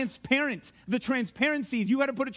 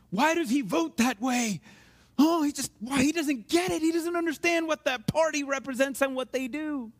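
higher-pitched mock political griping; exasperated; 3 semitones higher than usual. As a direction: complain high, in mock disbelief. Mimicking complaints about someone's politics.

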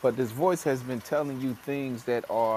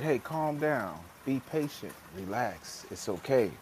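calming self-talk; 4 dB quieter than usual. Retold or imitated. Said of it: "the breath work".

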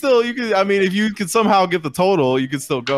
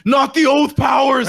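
higher, louder, slow wail; mock despairing shout; 9 semitones higher, 5 dB louder, slower than usual. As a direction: cry out as the final slap comes. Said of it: "He's like".

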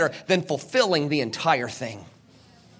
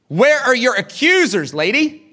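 Jesus asking; 5 semitones higher, 4 dB louder than usual. Acted. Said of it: "he says".

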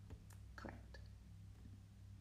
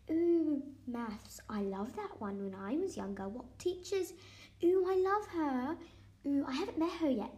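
a gushing teacher cooing over everything; English teacher impression; 4 semitones higher, 4 dB louder than usual. Kid keeps mimicking the teacher's gushing reactions, higher and louder. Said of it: "this is my impression of an English teacher".

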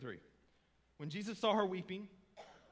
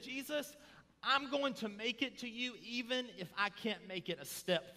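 higher, urgent voice of surrender; impassioned plea; 7 semitones higher than usual. Retold or imitated. Mary falling at Jesus' feet, impassioned plea. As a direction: pour out a determined plea.

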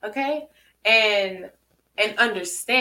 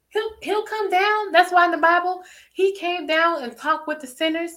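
rising; 7 semitones higher, 4 dB louder than usual. Acted. Preaching climb.

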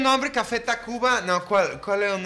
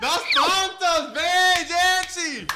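excited cheer; 10 semitones higher, much slower than usual. Real, not acted. Celebrating winning the points.

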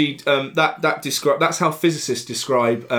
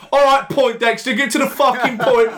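mock impatient; 8 semitones higher, 3 dB louder than usual. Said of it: "you all were like".

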